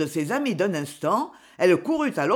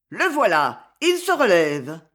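a louder call of relief; relieved cry; 4 dB louder than usual. Acted. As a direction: call out that he's back up. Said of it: "puis un cri". (un cri de soulagement)

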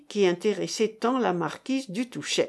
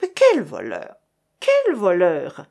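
crowd shouting; 3 semitones lower, 5 dB louder than usual. A narrator's reading. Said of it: "lui criait-on".

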